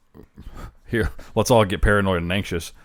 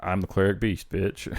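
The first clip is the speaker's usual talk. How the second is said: cleric beast impression. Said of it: "We hear cleric beast impression, go".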